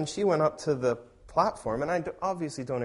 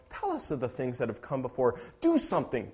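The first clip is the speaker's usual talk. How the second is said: mild sarcastic challenge; sarcastic mocking. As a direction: lightly goad powerless idols. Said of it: "God is sarcastically mocking idols".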